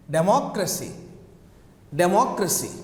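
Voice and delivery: democracy stressed on "moc"; stress on second syllable. Shown as a demonstration. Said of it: "we have the stress in democracy".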